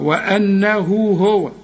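slow وأنه هو with the madd held only two beats; a shorter stretch on هو. Shown as a demonstration. Teacher contrasts the short madd for the student. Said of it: "مد بدون الهمزة بعدها".

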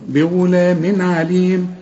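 بغلام عليم slow with a clear نون before عين; slow recitation. Shown as a demonstration. Teacher models the phrase slowly. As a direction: recite بغلام عليم, show the tanween plainly. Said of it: "والعين من حروف الإظهار".

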